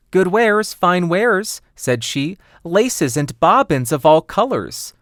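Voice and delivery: disguised queen sells laces, high and loud; old peddler. Acted. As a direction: tempt her with your goods. Peddler hawks wares.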